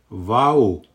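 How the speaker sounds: put-on a child's excited exclamation; an excited "Vau"; exclaiming. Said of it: "Pipsa huudattaa".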